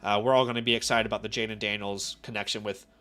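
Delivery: low, tired voice from a cold; sick with a cold. Real, not acted. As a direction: talk through a head cold. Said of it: "dealing with a cold flu thing".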